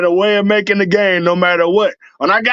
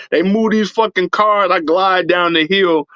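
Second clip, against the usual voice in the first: usual speaking voice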